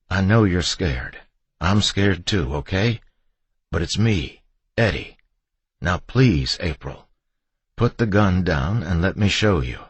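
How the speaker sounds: careful, soothing persuasion; small, non-threatening. A narrator's reading. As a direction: coax someone who is scared. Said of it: "as small and as non-threatening as I could".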